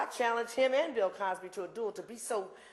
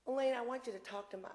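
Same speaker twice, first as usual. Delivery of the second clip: higher-pitched imitation of a Georgia accent; 4 semitones higher than usual. Nancy asking the speaker to talk to someone, imitated Georgia accent. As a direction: try on a woman's Georgia accent. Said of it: "'cause she has a Georgia accent".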